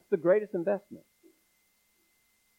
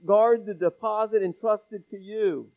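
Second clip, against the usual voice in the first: pleading. Acted. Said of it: "He's pleading with him".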